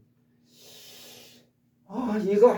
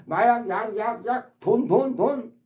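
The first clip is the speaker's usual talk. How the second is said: higher, pleading list of cravings; mock addict whining for drink, drugs, money; addict begging; 6 semitones higher than usual. Teacher imitating an addict begging for drink, drugs, money. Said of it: "막 말하면서".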